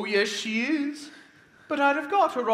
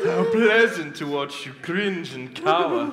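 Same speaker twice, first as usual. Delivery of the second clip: gloating laugh; 3 semitones lower, 6 dB louder than usual. Acted. Wolf gloats over captive.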